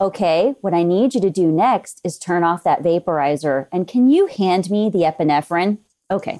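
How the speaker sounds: deliberately even, controlled instructions; very calm, monotone. Shown as a demonstration. Technician giving orders when things are real bad, very calm and monotone. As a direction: hold it calm and level, giving nothing away. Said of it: "if I get very calm and monotone".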